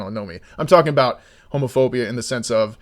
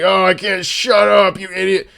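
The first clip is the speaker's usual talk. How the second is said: exasperated mock yell; mock yell at the news; 5 semitones higher, 4 dB louder than usual. Imitating partisans yelling at news, exasperated. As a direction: snap at the TV like a partisan viewer. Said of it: "and it's like".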